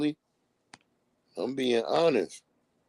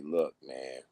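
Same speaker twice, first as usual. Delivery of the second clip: put-on baby voice; 6 dB quieter than usual. Baby voiced warning adults.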